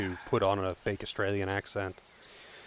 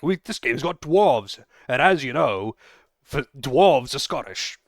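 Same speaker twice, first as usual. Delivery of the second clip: mock game maker; 4 semitones higher, 6 dB louder than usual. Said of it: "We're like".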